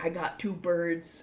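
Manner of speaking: normal talking voice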